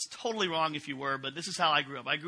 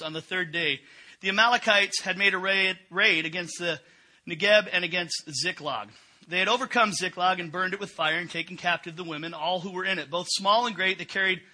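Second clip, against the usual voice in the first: steady, louder reading of the passage; scripture reading; 4 dB louder than usual. Acted. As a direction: read the Bible text to the congregation. Reads the Bible passage aloud.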